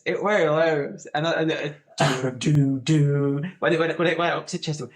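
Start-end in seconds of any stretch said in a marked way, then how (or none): 2.0-3.4 loud-ended "doo" sound effect; mock game-show noises; imitated show jingle. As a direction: sound out the reveal noise note by note. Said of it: "like that".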